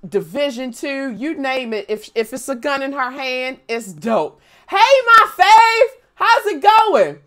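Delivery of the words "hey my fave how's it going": loud, high, slow welcome; excited greeting. Real, not acted. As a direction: greet a favorite with joy. Greeting a favorite viewer.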